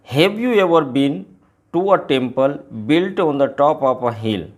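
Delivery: very slow, measured recitation of the opening lines; drawn-out teacher reading of a poem. Acted. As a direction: read the poem's first lines slowly to the class.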